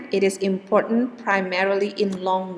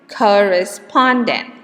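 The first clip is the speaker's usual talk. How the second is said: "correspondent" slower with COR light and SPON strong; COR-re-SPON-dent, drawn out; secondary and primary stress; 5 dB louder than usual. Shown as a demonstration. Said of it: "is pronounced as".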